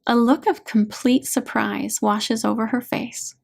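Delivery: ordinary delivery, nothing marked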